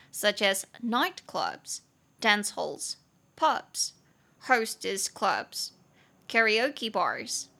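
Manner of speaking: slow, careful example-sentence read; slow model reading. Shown as a demonstration. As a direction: read each item slowly, like a teacher. Reads English example sentence.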